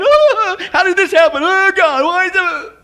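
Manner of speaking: high, loud mock whine; mock whining. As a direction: ham up a self-pitying complainer. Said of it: "whining and complaining".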